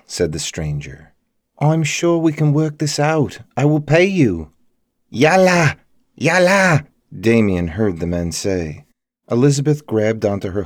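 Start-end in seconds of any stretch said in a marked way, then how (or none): 1.6-4.5 high, raised, anxious bargaining; urgent pleading. A narrator's reading. Damien offering the guardians money, pleading urgently. Bargaining with threatening men outside. 5.1-6.9 high, loud commanding yell; urgent shout. A narrator's reading. Guardians to their men before the attack, shouting.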